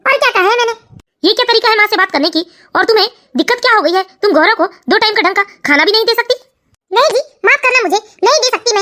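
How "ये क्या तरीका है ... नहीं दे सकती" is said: lower, steadier grown son asking what happened; a son gently pressing his mother; son's voice. Acted. Son asks his weeping mother what happened, lower voice. Son figure scolds wife.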